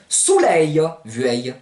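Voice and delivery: SOLEIL said the Provençal way, as "souleia"; Provençal pronunciation. Shown as a demonstration. Teacher giving the conjugated verb, Provençal pronunciation. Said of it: "Ça va donner".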